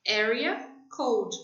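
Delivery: "Area code" spelled out slowly in English; slow English demo. Shown as a demonstration. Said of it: "é bem ao pé da letra". ("Area code" dito devagar, em inglês)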